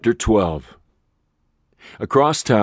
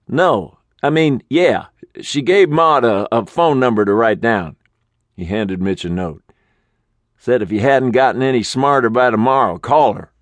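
high, hurried, flustered manager voice; 4 semitones higher, 4 dB louder than usual. Acted. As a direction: stumble through the message, pitched up. Manager recounts message.

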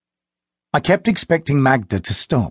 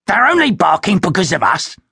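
higher, firmer second voice; lightly voiced companion; 7 semitones higher, 3 dB louder than usual. A narrator's reading. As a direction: companion Vampanese drags him away, speaking higher and firmer. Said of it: "his companion said".

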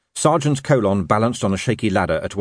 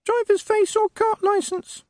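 tiny parroting voice. Acted. Imp reciting rules to the sergeant, tiny squeaky voice. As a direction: recite the lesson like a tiny pupil.

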